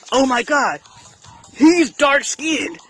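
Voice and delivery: high, drawn-out mock horror; mock shock. Mocking people who judge by skin, in high-pitched mock shock.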